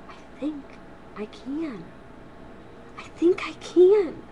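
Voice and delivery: from hushed to full voice; building. Acted. Grandma's little engine building from quiet to full.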